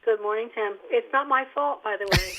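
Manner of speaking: muffled, boxed-in phone sound; like talking from inside a closet. Real, not acted. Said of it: "you sound like you're in a clo-, you need to get out of the closet".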